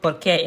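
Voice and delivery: "qué" stressed in "Por qué"; emphasis on qué. Shown as a demonstration. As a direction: lean on "qué" at the end of "Por qué". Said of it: "you put more emphasis on it".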